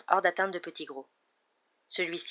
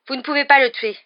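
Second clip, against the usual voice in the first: high, loud urgent protest; hurried breathing; 8 semitones higher, 13 dB louder than usual. A narrator's reading. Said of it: "la respiration précipitée". (protestation haletante)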